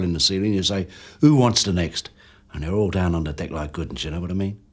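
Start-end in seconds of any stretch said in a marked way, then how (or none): 1.2-2.1 raised, louder mock threat; retold robber's challenge. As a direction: call it out like an armed robber reliving it. Acting out his robbery threat.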